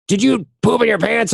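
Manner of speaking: high, incredulous dad question; shocked dad. Retold or imitated. Dad asking his sick son, high and incredulous. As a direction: ask it high in disbelief, a touch hushed. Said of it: "And he goes".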